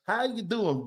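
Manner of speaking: lightly mocked phony Southern accent; fake accent. Host likening coach to a politician, mock phony Southern accent. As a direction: imitate a put-on Southern accent. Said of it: "phony-ass accents".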